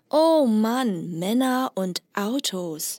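mildly exasperated, drawn out a little; a knowing, teasing sigh at the cliché; light eye-roll attitude; slight eye-roll. Shown as a demonstration. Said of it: "要有个态度，微微翻白眼的态度".

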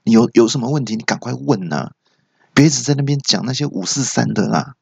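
mildly impatient retort. Acted. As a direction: brush the caller off with light irritation. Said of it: "那陈小姐不耐烦就说". (略带不耐烦地打发人)

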